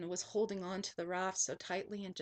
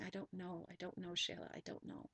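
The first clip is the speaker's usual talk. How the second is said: soft, fading to a whisper; stunned voice that dies away; dazed, shaken repeating; 3 semitones lower, 10 dB quieter than usual. Retold or imitated. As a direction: shaken murmur, trailing off to a breathless whisper. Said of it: "And I just kept saying".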